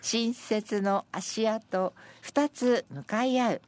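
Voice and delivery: slow, spaced verse reading that settles at the end; senryu recitation. Acted. Presenter reading senryu about two sets of footprints, slow recitation. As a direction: linger over each phrase of the poem.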